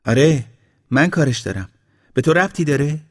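high, loud, indignant comeback; angry retort. A narrator's reading. Woman rebukes the young man for prying, angry retort. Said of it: "عصبانی نگاهش کرد و گفت".

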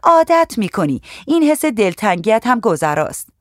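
put-on young officer consoling the new girl; reassuring policewoman. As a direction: brush off her homesickness cheerfully. Najah reassures the homesick girl.

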